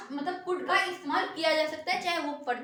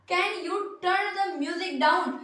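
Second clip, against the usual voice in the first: slow demo; much slower than usual. Shown as a demonstration. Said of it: "यहाँ पे क्या होगा?".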